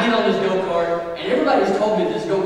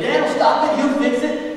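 put-on much higher, louder child's plea; a scared kid counting on dad; high, pleading hope, louder; desperate hope; 10 semitones higher, 5 dB louder than usual. Boy hoping dad saves him.

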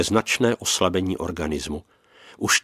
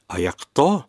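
puzzled question, pitched higher; uncomprehending; 4 semitones higher than usual. A narrator's reading. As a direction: ask it as if you don't follow. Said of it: "ptám se nechápavě". (nechápavá otázka)

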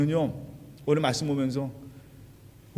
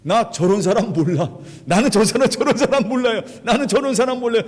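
denial; 5 semitones higher, 4 dB louder than usual. Acted. Peter denies knowing Jesus.

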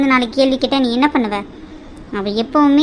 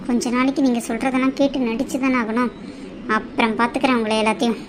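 softer, resentful aside; scheming aside; 5 dB quieter than usual. Acted. Daughter-in-law privately plotting after agreeing, scheming aside.

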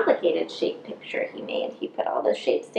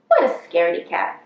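mocking, low and louder; playful taunt; teasing; 4 semitones lower, 6 dB louder than usual. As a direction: laugh at the cat. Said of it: "said Violet".

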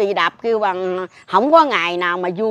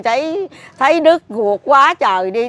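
raised, higher voice straining with grief; anguished cry; 5 semitones higher, 4 dB louder than usual. Real, not acted. Mother telling visitors of her daughter's body, anguished cry.

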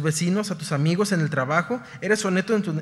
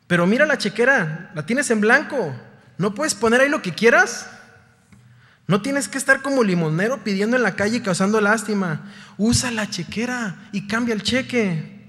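louder, higher, scolding the son; exasperated scolding; 4 semitones higher, 5 dB louder than usual. Retold or imitated. Passerby scolding the king's son, louder and higher. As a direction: shake him awake, exasperated. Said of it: "passerby scolds the rich son".

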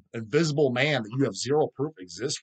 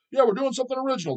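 mocking the band; 11 semitones higher, faster than usual. Mocking the band's boast.

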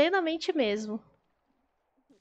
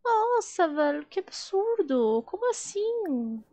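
tag; 7 semitones higher, slower than usual. Real, not acted. Segue incrédula com o relato.

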